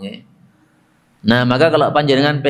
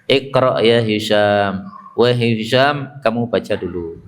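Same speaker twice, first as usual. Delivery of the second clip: calm and gentle; 3 semitones lower than usual. Retold or imitated. Prophet gently inviting Hisham to recite, calm and slow. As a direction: ease him in gently, no rush. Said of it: "Nah, adem sama Nabi".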